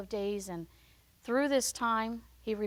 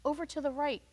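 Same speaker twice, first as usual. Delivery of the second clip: gentle prompting Lord; 5 semitones higher than usual. Retold or imitated. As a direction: ask patiently where he's headed. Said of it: "the Lord prompts us many times".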